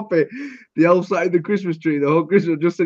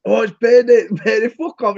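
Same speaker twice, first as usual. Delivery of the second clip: mock smug payday post; 4 semitones higher than usual. Friend mocking a smug payday post, sneering. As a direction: mimic a smug status. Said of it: "Payday status".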